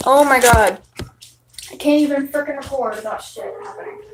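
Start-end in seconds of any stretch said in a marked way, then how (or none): 1.7-4.0 whispered exasperated aside; real annoyed whisper to herself; frustrated whisper. Real, not acted. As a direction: mutter it under your breath, fed up.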